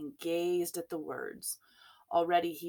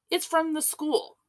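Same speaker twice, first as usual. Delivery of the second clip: higher, louder panicked shriek; 11 semitones higher, 7 dB louder than usual. A narrator's reading. Frightened woman fleeing the bear, shrieking. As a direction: blurt it out, high and scared. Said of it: "she shrieked".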